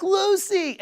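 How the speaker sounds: high, loud, delighted call of a name; excited call. Retold or imitated. Greeting a friend's shy little girl, thrilled high call. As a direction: call out to her like you can't wait to see her. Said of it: "And I'm so excited to see her".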